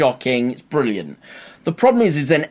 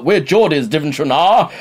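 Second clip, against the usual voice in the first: mock posh English accent; 4 semitones higher, 5 dB louder than usual. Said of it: "they're just talking posh".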